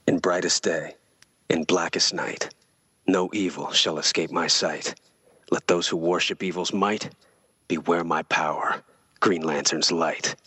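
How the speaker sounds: slow, solemn oath recital. Shown as a demonstration. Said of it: "Here we go".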